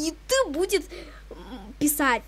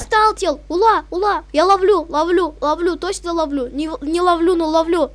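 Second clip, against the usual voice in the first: excited; 6 dB louder than usual. Real, not acted. Catching a rare player, excited.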